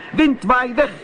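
high, loud shout of the spell; little cat shouting the charm; loud call. A narrator's reading. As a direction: yell it to break the spell. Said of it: "en riep".

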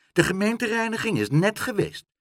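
high-pitched, pleased announcement; self-satisfied. A narrator's reading. Mevrouw Helderder tells Pluk the bin was emptied, self-satisfied. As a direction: break the bad news with satisfaction. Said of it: "zei mevrouw Helderder tevreden".

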